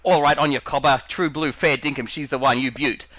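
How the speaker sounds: a hint of a broad ocker Australian accent; lightly sends up broad Australian slang; broad Aussie slang. Australian guest mocking broad ocker slang, lightly voiced. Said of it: "I'm not a".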